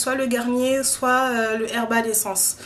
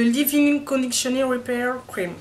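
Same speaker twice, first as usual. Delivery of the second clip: English accent. Real, not acted. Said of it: "Avec mon accent bizarre là".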